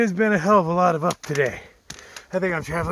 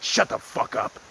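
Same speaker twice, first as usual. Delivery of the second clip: low, whispered threat; whispered brush-off to the college kids; menacing whisper; 5 semitones lower than usual. Retold or imitated. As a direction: hiss it at them under your breath. Telling off passing college kids.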